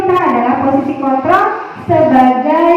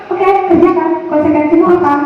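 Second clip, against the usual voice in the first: flat; 3 semitones higher, faster than usual. Shown as a demonstration. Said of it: "Datar dia".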